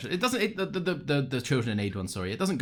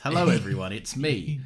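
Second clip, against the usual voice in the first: put-on light transatlantic accent greeting; hint of transatlantic Doctor voice. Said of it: "another man with a transatlantic accent".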